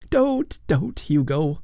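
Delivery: high pleading wail. Acted. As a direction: wail his name. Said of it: "wailed the other poor ghost".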